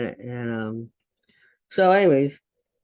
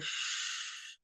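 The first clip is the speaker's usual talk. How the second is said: a whispered shh; hushing whisper; 14 dB quieter than usual. Retold or imitated. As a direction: hush her in a whisper. Son hushing while swinging machete.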